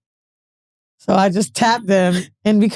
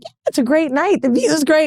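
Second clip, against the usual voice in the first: higher, mock-pleasant chatter; forced small talk; 5 semitones higher than usual. Making small talk with the other woman, forced pleasant. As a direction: imitate nervous polite small talk.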